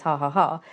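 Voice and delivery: dry spoken ha ha ha, mock gloating; a smug little pretend laugh. Tester gloating over the client's exploited vulnerabilities, mock laugh. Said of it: "a very professional laugh".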